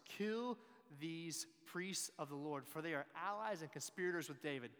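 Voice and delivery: furious order. Acted. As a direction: give the order, then build into indignant accusation. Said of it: "furious about what's happening".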